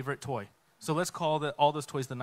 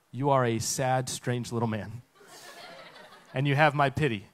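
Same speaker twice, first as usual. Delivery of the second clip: lofty pity; 3 semitones lower than usual. Retold or imitated. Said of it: "Buzz responds with".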